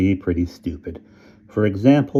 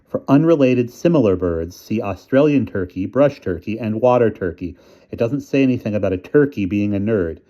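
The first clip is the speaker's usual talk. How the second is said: a hint of mom reciting; mom reading on; 3 semitones higher than usual. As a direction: read on primly from the book. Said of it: "She continued".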